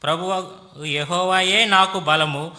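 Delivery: measured, declaimed Bible reading; scripture reading. Acted. Interpreter reading Habakkuk to the congregation, formal scripture reading. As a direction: read each clause out evenly and formally.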